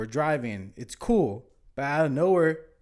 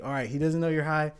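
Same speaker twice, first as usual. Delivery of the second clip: acting calm; 3 semitones lower, 4 dB quieter than usual. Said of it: "So I had to get in character".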